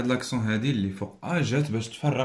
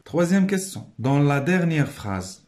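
raised announcement; 4 semitones higher, 4 dB louder, slower than usual. Shown as a demonstration. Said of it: "announcing question".

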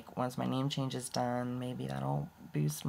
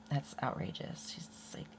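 whispering; 7 dB quieter than usual. Real, not acted. Aside about social worker.

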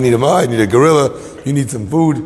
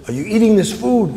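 raised-pitch acted question; high but not yet shouted; calling across; 7 semitones higher than usual. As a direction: call it out to someone in the distance. Calling to bear across enclosure.

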